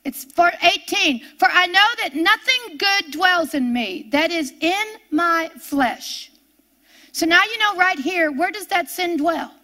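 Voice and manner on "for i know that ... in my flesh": scripture reading. Acted.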